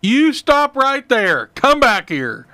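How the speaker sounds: firm, drawn-out mock holler; retold holler. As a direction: re-enact calling a man back, firmly and slowly. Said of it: "I hollered to him".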